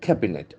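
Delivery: Cabinet stressed on CAB; first-syllable stress. Shown as a demonstration. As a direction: put the accent at the start of Cabinet, CAB-i-net. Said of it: "The accent falls on the first syllable".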